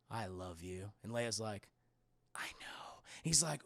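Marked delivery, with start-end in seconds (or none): 0.1-0.9 quiet, tender confession; soft tender Han. Retold or imitated. Streamer voices Han telling Leia he loves her, soft and tender. Han's famous line, retold. 2.4-2.7 breathy whispered reply. Retold or imitated. Streamer voices Leia answering Han, whispered.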